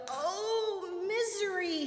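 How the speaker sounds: high, drawn-out wailing cry; woman's yelled lament. A narrator's reading. Woman whose calabash just broke, yelled lament. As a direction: yell out in dismay, pitched well up. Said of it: "she yelled".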